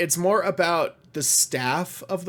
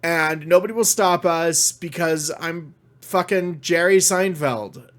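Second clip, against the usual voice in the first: smug mock gloating.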